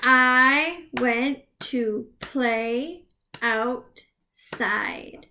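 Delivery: stretched slowly word by word; teacher drawing out every word; slow clapped sentence. Shown as a demonstration. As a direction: clap it out slowly. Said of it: "clap it out".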